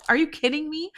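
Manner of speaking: high-pitched indignant question; exasperated disbelief. Retold or imitated. Outraged at being kicked out of the club, incredulous.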